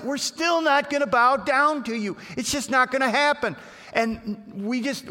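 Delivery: ringing, defiant refusal; defiant friends. Acted. Three friends boldly refusing the king to his face.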